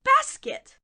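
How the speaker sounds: sweet-talking wolf voice, breathy hello; wolf playing friendly; sly big bad wolf. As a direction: lure the little one in like a smooth-talking wolf. Wolf probing about basket.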